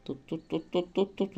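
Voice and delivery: from hushed to eager chant; building excitement. Real, not acted. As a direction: urge it on, tension building with each word. Trying to catch fish.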